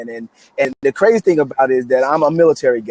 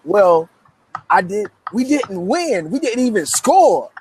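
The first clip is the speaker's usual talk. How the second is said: put-on upset little girl; 6 semitones higher, slower than usual. Crying cousin explains the loss.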